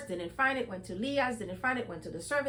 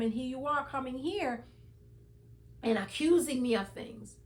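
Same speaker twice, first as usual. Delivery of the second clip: retold indignation, a touch of anger; mild angry berating; 3 semitones higher than usual. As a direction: lightly act out an offended man's rebuke. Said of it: "Jacob got very angry and started berating".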